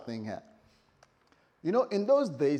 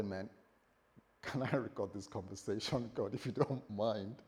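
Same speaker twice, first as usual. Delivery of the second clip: softer, lower, tentative request; politely hesitant; 5 semitones lower, 7 dB quieter than usual. Acted. Believer asking God to record the conversation, softly polite. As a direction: ask softly, careful not to intrude. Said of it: "I don't want to be rude".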